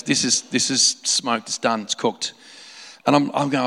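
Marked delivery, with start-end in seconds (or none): 0.0-2.3 a hint of a deadpan repairman delivering bad news; repair guy. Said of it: "He goes".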